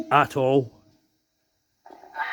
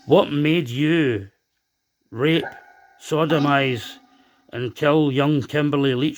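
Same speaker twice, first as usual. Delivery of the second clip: slow accusing demand; slower than usual. Real, not acted. Demanding answers from a dead killer.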